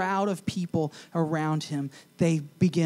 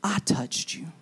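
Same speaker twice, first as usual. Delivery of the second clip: timid confession; 5 semitones higher than usual. Acted. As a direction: admit it barely aloud.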